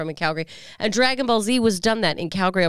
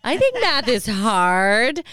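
slow, brighter doll take; talking Barbie voice; 3 semitones higher, 4 dB louder, much slower than usual. Retold or imitated. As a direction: lean into the doll voice. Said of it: "her first statements were".

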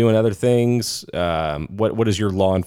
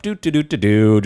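carefree ambling. Retold or imitated. Veteran cop casually rolling over to the chase, carefree singsong. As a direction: toot along like someone strolling without a care.

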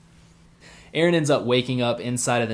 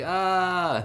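high, drawn-out mock freak-out "ah"; long high cartoonish wail; mock panicked cry; 9 semitones higher than usual. Retold character freaking out.

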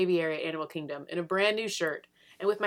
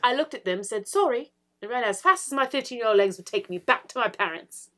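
excited British accent, rising higher; 4 semitones higher, 4 dB louder than usual. Shown as a demonstration. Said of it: "I think the accent made that".

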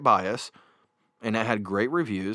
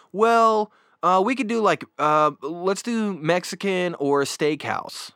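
helpful suggestion; 8 semitones higher than usual. Retold or imitated. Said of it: "you could say".

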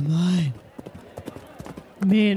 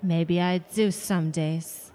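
wistful and soft; 4 semitones lower, 4 dB quieter than usual. Acted. Wistful memory of husband.

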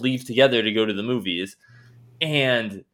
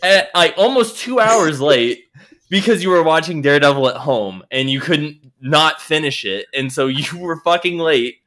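angry rant; 3 semitones higher than usual. Retold or imitated. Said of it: "And I'm like".

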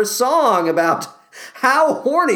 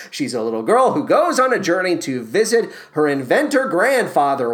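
ordinary talk

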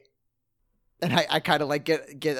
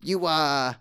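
brash adventurer; 5 dB louder than usual. Acted. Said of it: "I say".

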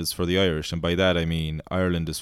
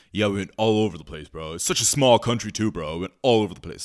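tourist impression; faster than usual. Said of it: "the impression of this guy is on point".

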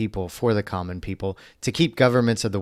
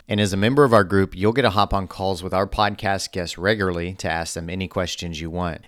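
ad read. Acted. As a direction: pitch it like a radio ad.

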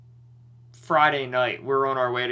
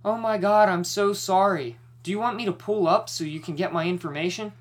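high apologetic mock voice; mock sorry-driver voice; imitating the other driver; 6 semitones higher than usual. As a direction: play her as overly sweet and apologetic. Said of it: "and she's like".

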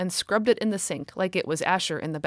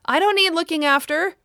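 put-on high, loud child's protest; loudly; 10 semitones higher, 6 dB louder than usual. A narrator's reading. Girl protesting loudly while mother is on the phone. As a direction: call it out over mother's phone call. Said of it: "said Kitty loudly".

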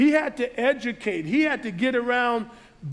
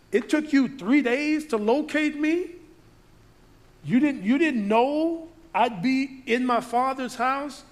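soft rebuke; 3 semitones higher than usual. Retold or imitated. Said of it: "a soft rebuke to his parents".

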